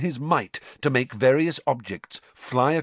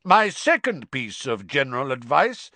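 put-on louder, cutting in over the boy; loudly; 4 semitones higher, 5 dB louder than usual. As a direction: raise the voice to interrupt. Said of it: "said Moody loudly".

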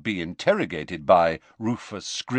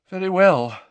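brisk McGonagall; 10 semitones higher, 7 dB louder than usual. A narrator's reading. McGonagall answers the staff.

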